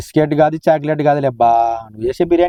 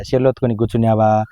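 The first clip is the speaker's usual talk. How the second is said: mocking her words; 4 semitones lower than usual. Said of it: "ఎప్పుడు అనకూడదు ఆ మాట".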